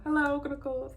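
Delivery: tired bored cashier. Retold or imitated. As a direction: say it like the thousandth time today. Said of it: "I used to say that all the time".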